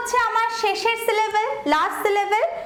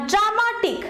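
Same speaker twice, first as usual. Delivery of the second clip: ড্রামাটিক slowly, weight on মা; stress on second-last syllable; 2 semitones higher, slower than usual. Shown as a demonstration. Teacher offering an example of the rule, ড্রামাটিক stressed on মা. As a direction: draw out মা in ড্রামাটিক. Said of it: "আমার stress".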